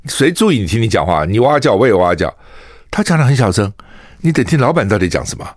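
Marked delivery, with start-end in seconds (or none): none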